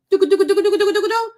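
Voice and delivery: rapid, high nonsense chatter; fast, high mocking gibberish; mock babble. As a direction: rattle off gibberish to mock her talking. Mocking her as empty chatter.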